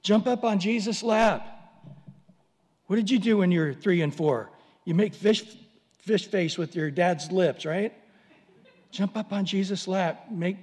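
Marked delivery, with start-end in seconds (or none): 0.0-1.5 eager invitation. Shown as a demonstration. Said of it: "like a little toddler". 8.9-10.3 gentler repeat. Shown as a demonstration. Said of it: "like a little toddler".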